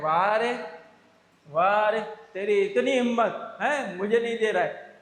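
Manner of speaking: loud mock-tough goon threat; goon threatening. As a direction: puff up like a street bully. (गुंडे की धमकी, ज़ोर से)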